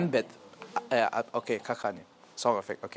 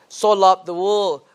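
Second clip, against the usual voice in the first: slow, deliberate "So love the world"; slow and clear; 7 dB louder, slower than usual. Shown as a demonstration. Teacher modelling a slow clear recitation. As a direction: say it slowly and clearly. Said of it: "Slow and clear voice".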